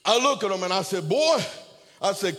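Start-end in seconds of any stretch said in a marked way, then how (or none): 1.1-1.4 a loud, high call across the lot. Retold or imitated. Pastor hails the young man from across the van, loud call.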